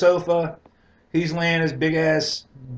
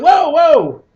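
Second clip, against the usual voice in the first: high, loud alarmed yell; alarmed shout; 13 semitones higher, 11 dB louder than usual. Retold or imitated. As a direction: warn her she nearly hits a car. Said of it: "I'm like".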